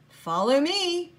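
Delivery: a busy little man tutting over the rules; the elf boss fretting over a broken rule; fussy little elf. Acted. Mister Pudding leads off.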